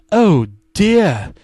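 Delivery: lightly voiced smoker's rasp; a hint of a cigarette voice. Narrator sighing like a smoker as Daddy runs late. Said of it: "the narrator said like a cigarette".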